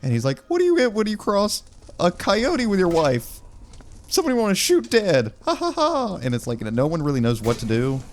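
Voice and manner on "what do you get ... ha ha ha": high, odd jokester voice with a cackle; creepy joker. Retold or imitated. Church singer telling dark joke to the crowd, high cackling voice. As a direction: tell the wife joke in a high unhinged voice.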